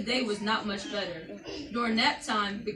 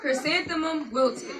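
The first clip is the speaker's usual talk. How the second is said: sadder wilted; 4 semitones higher, 4 dB louder than usual. Shown as a demonstration. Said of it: "We'll try it again".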